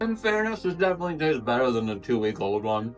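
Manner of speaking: talking through a mouthful; words around a bite; chewing while talking. Real, not acted. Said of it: "Sorry, I'm chewing".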